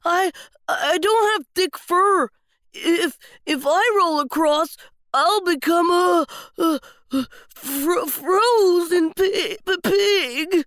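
stuttering, shivering worry; stammering fear. Acted. Little Pig refusing to roll across the ice, stammering fear. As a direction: stammer like you're already freezing.

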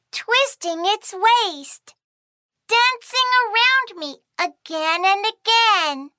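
put-on reading to a toddler. A narrator's reading. Reading to a child.

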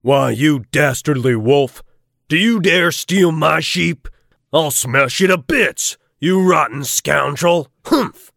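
blustering angry farmer; cartoonish fury. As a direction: scold the thief like a cartoon farmer. Farmer scolds wolf.

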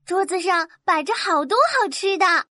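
put-on understated wonder in a girl's voice; amazed exclamation. Little girl sees a feast on the wall, mildly amazed. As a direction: marvel at it without raising your volume. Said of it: "惊叫起来".

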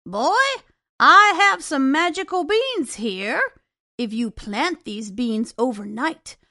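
a hint of a sly old stranger pitching a deal; strange old man. Strange old man tempts Jack to swap his cow, lightly voiced old man.

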